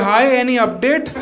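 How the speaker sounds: mock polite email query. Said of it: "वो response कर रहे हैं".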